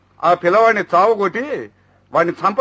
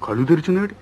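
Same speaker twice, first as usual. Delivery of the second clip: shocked dismay. Acted. Brother finds his sister bound and cries out in shock. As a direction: gasp in horror at the sight.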